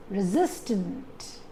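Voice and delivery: resistant with a light RE and stressed SIS. Shown as a demonstration. Teacher says not on re, stressing resistant on SIS. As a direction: lean on the middle syllable of resistant. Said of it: "put the stress on re".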